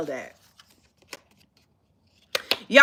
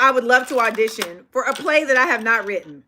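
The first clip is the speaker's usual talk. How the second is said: mocking quote. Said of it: "Y'all are on here talking about".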